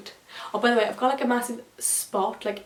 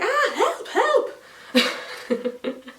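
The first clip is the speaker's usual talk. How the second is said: high, loud cry for help, laughing through it; retold panic, giggling; laughing mock scream; 12 semitones higher, 6 dB louder, much slower than usual. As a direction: scream for help while cracking up. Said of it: "I was screaming".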